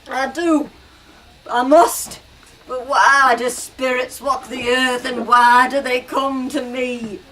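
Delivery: loud, pleading answer; frightened Scrooge. Acted. Scrooge answering Marley's ghost, loud and pleading.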